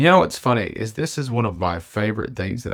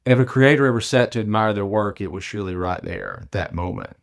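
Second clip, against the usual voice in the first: measured, lyrical reading of her own prose poem; poetic reading. Acted. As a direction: author reading her piece aloud, unhurried. Reads her own written piece.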